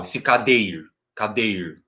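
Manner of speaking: cadeir ending sharply on the R, no final A; stem without final vowel. Shown as a demonstration. Teacher repeating the stem for students, cadeir up to the R. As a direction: cut the word off at the R: cadeir. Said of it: "Até o R".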